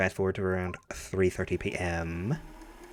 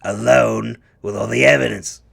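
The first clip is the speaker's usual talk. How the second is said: gravelly voice. Acted. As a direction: growl it like a weary old cop. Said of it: "my gravelly voice".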